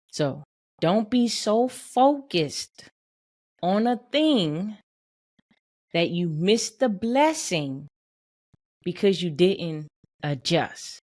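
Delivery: slow, deliberate restatement with pauses between phrases. Real, not acted. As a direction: spell it out phrase by phrase, slowly. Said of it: "Imma say it a little slower".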